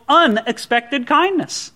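"unexpected" drawn out slowly for emphasis; stress on unexpected. Shown as a demonstration. Pastor urging friends to kindness, stress on "unexpected". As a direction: lean on "unexpected", slowing right down. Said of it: "I want to stress that word unexpected".

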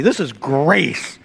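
"This is grace." धीमे, हर शब्द पर ज़ोर; slow, low, weighty "This is grace."; stress on grace. Shown as a demonstration. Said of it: "This is, this is not mercy".

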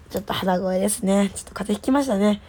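stuffy nose voice; blocked nose. Real, not acted. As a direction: talk with a cold.

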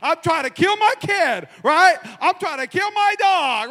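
mock alarm. Real, not acted. Pastor jokes to church about poisoning his kid, high mock panic. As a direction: throw up your hands in comic alarm.

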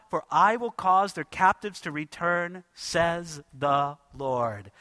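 measured, declaiming Bible reading; solemn scripture reading. Acted. Preacher reading the Lord's promise to his congregation, solemn and declaimed. Reads Jeremiah 32 scripture aloud.

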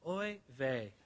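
low, soft, put-upon Oy vey; weary Moses sigh. Pretend. Moses groaning at complaining Israelites, low and soft. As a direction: sigh it out like a tired old man. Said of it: "Can you imagine Moses saying".

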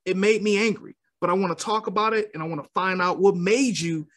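calm, controlled confrontation. Shown as a demonstration. Addressing Aaron about how he said that, calm voice. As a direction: stay composed while raising a grievance. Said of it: "I can say a calm voice".

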